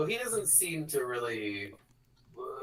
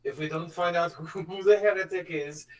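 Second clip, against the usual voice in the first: higher mock-menacing announcement; villain broadcast; 4 semitones higher than usual. Villain on a microphone threatening the planet, hammed-up menace. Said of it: "she's like".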